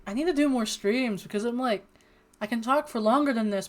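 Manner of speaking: ordinary delivery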